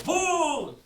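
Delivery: preacher acting David spooking the king, playful loud boo. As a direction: jump out and spook him for fun. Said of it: "Le dijo".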